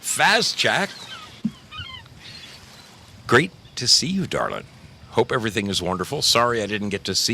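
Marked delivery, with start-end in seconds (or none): 0.0-4.6 excited hello. Real, not acted. Calling out to a viewer.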